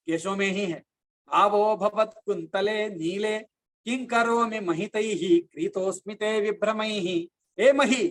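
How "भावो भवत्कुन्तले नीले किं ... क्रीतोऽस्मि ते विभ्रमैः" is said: slow, measured Sanskrit chant; slow Sanskrit verse recital; shloka recitation. Acted. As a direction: recite the verse with devotion, slowly. Quotes shloka lines.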